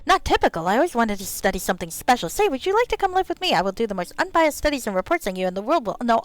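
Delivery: excited gnome pitching a study; lively, lilting gnome enthusiasm; eager gnome scholar. Acted.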